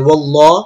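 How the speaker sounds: ওয়াল্লাহ with a thick l and rounded vowel; heavy Allah. Shown as a demonstration. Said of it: "মোটা করে উচ্চারণ করতে হবে".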